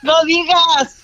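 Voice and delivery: real flustered exclamation; alarmed hushing. Real, not acted. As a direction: stretch out an excited plea for secrecy. Hushes the shouting winner.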